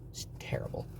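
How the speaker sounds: hushed, breathy whisper. Real, not acted. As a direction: whisper it like a dark confession. Closing verdict on bad trip.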